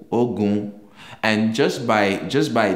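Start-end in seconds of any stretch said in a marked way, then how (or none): 0.1-0.7 Ogun on a level middle tone; Yoruba tone. Shown as a demonstration. Teacher demonstrating Yoruba tones to learners, mid-tone Ogun. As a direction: say Ogun flat and even in the middle. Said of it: "the way you pronounce that letter".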